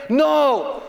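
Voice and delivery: high, slow mock wail; hammed-up tearful denial; crying child. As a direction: imitate a little girl protesting through tears. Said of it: "So she's crying".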